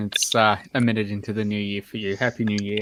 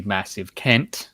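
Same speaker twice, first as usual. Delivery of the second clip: slow, drawn-out New Zealand "Kent"; New Zealand accent; much slower than usual. Real, not acted. Rounding off an insult, slow New Zealand accent. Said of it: "says it with an, um, New Zealand accent".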